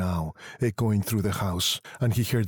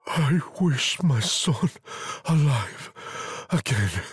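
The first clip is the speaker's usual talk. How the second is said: raised, slow, halting wish; solemn wish; 6 semitones higher, slower than usual. A narrator's reading. Husband raises his hand to wish, slow and solemn. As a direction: make the wish slowly, pitched up then falling.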